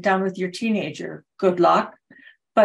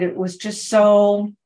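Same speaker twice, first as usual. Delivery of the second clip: drawn-out, louder SO left hanging; overwhelmed trailing pause; 6 dB louder than usual. Retold or imitated. Retelling a clubmate's speechless moment to the club, overwhelmed. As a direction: stretch SO, then break off searching for words. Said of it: "it was so overwhelming, she couldn't find a word".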